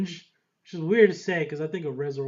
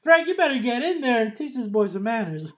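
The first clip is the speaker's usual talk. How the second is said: high startled cry, then a mock call to Frank; retelling his own stunned reaction; shocked outburst; 7 semitones higher than usual. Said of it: "I was like".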